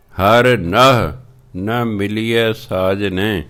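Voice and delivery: measured, drawn-out scripture reading; slow devotional recitation of Gurbani. Acted. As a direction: read each word slowly and carefully. Recites Gurbani line slowly.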